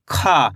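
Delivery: खा with a puff of air, falling low; letter-sound demo. Shown as a demonstration. Teacher shows the second letter, letter-sound demo. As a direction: say an aspirated, drawn-out खा. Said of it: "कैसे पढ़ेंगे?".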